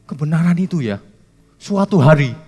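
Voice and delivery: a hint of a professor dodging the question; lecturer's style. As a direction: pastor parodies a lecturer who answers in circles, mildly. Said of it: "Gayanya dosen".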